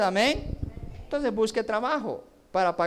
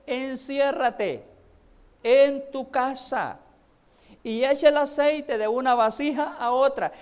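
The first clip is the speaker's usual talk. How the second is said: slow solemn command; 4 semitones higher, slower than usual. Acted. Preacher voices the prophet's command.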